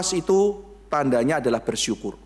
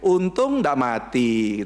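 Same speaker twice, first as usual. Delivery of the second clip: slow relieved; 3 semitones lower, much slower than usual. Retold or imitated. Quoting a relieved lucky person.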